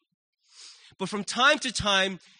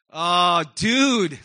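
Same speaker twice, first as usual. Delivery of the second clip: loud, drawn-out reaction of being floored; struck, moved; 3 semitones lower, 6 dB louder than usual. Acted. Preacher voices a moved listener, loudly struck. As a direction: play someone hit hard by a message.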